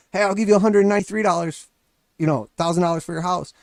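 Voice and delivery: hollering an offer over the fence; neighbor yelling. Retold or imitated. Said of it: "and he yells at you".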